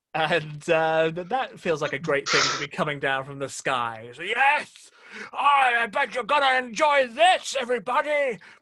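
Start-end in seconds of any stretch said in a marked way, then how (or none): 4.3-8.4 loud, pitched-up, taunting voice. Voicing someone eating your planet and addressing everybody, in an Orson Welles voice. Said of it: "Is that your Orson Welles voice".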